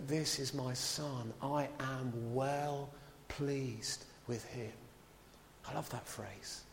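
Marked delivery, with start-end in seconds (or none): 0.1-4.7 solemn voice of God. Retold or imitated. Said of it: "And God the Father spoke".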